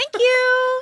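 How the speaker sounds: put-on young woman voice. Showing how ordering at Starbucks sounds: exaggerated white girl voice. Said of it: "It gets even more white girl than this".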